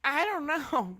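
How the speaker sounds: talking through hiccups; words broken by a hiccup. Real, not acted. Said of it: "I got the hiccups".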